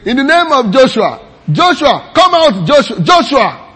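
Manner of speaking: high, loud mock cry casting out demons; mocking disciples shouting a name at demons; mock exorcist. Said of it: "So they are saying".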